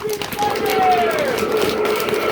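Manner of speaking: long, high, drawn-out shout; thunder shout. Shown as a demonstration. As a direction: roar it out like thunder for the kids. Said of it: "And everybody shout".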